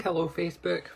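breathy unvoiced hello; whisper. Shown as a demonstration. Whispering hello to the Facebook viewers. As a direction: whisper the greeting like a secret. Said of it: "Or should I say".

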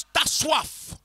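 normal talking voice

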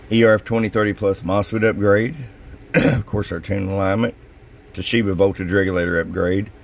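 hoarse, voice giving out; scratchy worn-out voice; losing voice. Real, not acted. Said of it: "I'm losing my voice a little bit today".

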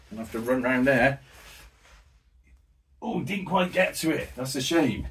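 running match commentary, lively and quick; live play-by-play. Acted. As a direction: call the game as it unfolds.

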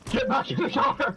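high, slow shout through laughter; panicked laugh-shout; laughing yell. Real, not acted. Bear attacking, laughing panic.

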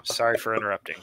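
whispered sorry; whispered apology. Real, not acted. Interrupting partner apologizes to him in a whisper.

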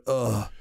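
low waking-up groan; dazed low grunt; groggy groan. Retold or imitated. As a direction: groan as if just coming round. Groggy waking after knockout.

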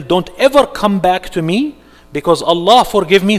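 loud, defiant rebuke to Shaitan; defiant shout. Retold or imitated. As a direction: drive the devil away with your voice. Believer telling Shaitan to leave.

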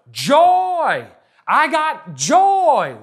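high, loud shout of joy; joyful shout. Real, not acted. Preacher leading the church in a shouted joy. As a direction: shout it out to the crowd. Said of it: "Shout it out".

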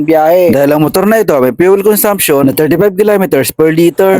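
smooth, even voiceover read for a motorbike; product review voiceover. Acted. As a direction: read it like a polished bike review. Voiceover review read over music.

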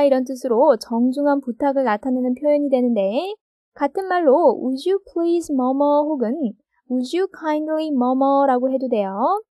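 usual speaking voice

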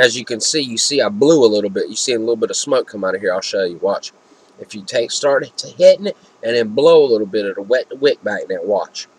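vape tip between lips; speaking around e-cigarette; talking with vape at lips. Real, not acted. Seen 0: Vape held against lips while talking, often tip in mouth.

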